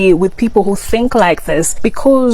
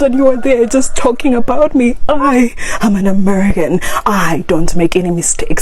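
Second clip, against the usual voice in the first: satirical arrogant American. Acted. Vlogger parodies an American insulting Africans, mock scorn. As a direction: sneer down at the poor African, mildly mocking. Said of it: "let's see the, our response".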